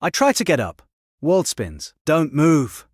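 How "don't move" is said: louder, higher urgent command; raised-voice emergency order; yelled order. A narrator's reading. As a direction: yell it to stop someone moving. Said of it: "she yells".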